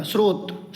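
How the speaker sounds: स्रोत said clearly with s-r cluster, no t; स्रोत spelled out with a crisp s-r; correct pronunciation. Shown as a demonstration. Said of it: "ये स्रोत नहीं होता". (स्रोत स्पष्ट स-र के साथ, बिना त)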